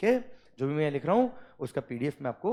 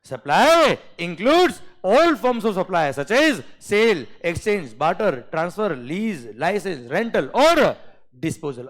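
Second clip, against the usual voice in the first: drawn out, louder and higher; slow classroom dictation; 4 semitones higher, 5 dB louder, much slower than usual. Shown as a demonstration. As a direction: dictate the whole clause slowly for copying. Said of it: "जिस speed से मैंने बोला ना बेटा".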